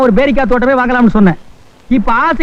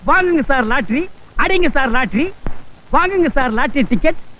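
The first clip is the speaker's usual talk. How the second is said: street hawker call; 3 dB quieter than usual. Acted. Hawking tickets on the street.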